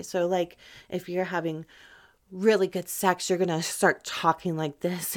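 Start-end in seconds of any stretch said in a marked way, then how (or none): 3.3-5.1 urgent, quickened delivery; sped-up, energetic. Shown as a demonstration. Showing listeners how the voice matches energy, urgent. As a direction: pick up the energy and push it along. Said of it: "speed up to match the energy".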